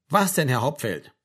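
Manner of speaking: understated, obedient echo; dutiful repetition. Acted. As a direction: repeat it as told, with little enthusiasm. Frank dutifully repeats the corrected phrase. (pflichtschuldig nachgesprochen, zurückgenommen)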